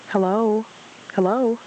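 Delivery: high squeaky calling voice; squeaky little creature calling out; Piglet. A narrator's reading. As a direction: squeak out a hello to whoever is there. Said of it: "the squeaky voice said".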